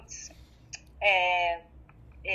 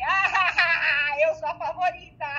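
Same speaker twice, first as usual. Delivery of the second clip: laughing; 5 semitones higher, 9 dB louder, slower than usual. Retold or imitated. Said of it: "e falei".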